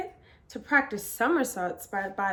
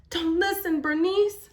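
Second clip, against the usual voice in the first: put-on high, louder child's protest; cried out; 7 semitones higher, 4 dB louder than usual. A narrator's reading. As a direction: cry out to shield her friend. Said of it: "Sophie cried".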